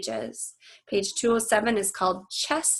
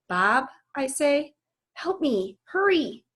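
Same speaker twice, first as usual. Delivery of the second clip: higher, rising urgency on hurry; urgent plea; 6 semitones higher than usual. Acted. Ivan urges Bob to help him fast, urgent plea. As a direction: hurry him along, pleading.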